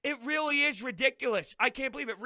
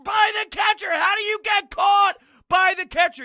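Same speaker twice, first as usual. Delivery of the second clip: furious, much higher and louder yelling; angry shout; 11 semitones higher, 8 dB louder than usual. Real, not acted. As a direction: yell at the team for the blunder. Fan ranting at team's blunder.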